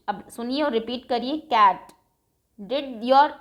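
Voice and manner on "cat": "Cat" said louder, clear final t; a teacher modelling "Cat" for pupils to repeat; model word. Shown as a demonstration. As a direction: give "Cat" a crisp final t. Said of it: "Listen and repeat".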